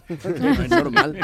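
loud, high laughing through words. Real, not acted. Laughing at the hard work.

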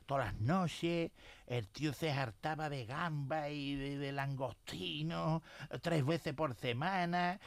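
quiet slow boast. Retold or imitated. Friend boasts about long-lived grandfather.

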